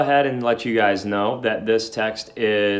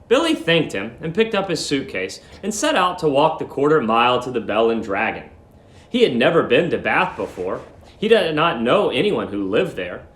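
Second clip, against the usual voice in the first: steady read-aloud narration; story narration; 3 semitones higher than usual. A narrator's reading. Teacher reading a story aloud to students, measured narration. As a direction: read the story clearly to the class.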